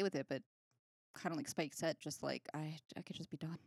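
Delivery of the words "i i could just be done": quiet weary. Retold or imitated. Voicing Buffy's weary wish.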